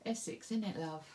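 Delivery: a hint of a broad Essex accent; lightly put-on Essex, teasing; cheeky little Essex aside to viewers; playful Essex accent. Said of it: "I can hear my accent coming out".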